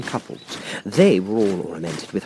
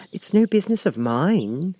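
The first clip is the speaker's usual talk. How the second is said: bold Alice; 10 semitones higher than usual. A narrator's reading. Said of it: "surprised at her own courage".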